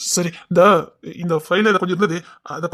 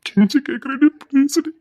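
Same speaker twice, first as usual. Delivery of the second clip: higher, urgent imploring; begging; 4 semitones higher than usual. Acted. Husband imploring his wife, desperate begging. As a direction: plead with rising desperation.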